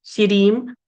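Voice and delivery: SHIREEM with an extra vowel after SH; mistaken split syllable. Shown as a demonstration. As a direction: break it into SHI-REEM. (SHIREEM in two syllables, ending in M)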